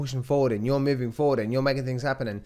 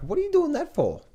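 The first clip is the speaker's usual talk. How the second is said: high mocking whine; high scoffing voice of a doubter; mocking critic; 13 semitones higher than usual. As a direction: sneer it like a nagging critic. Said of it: "some people just like".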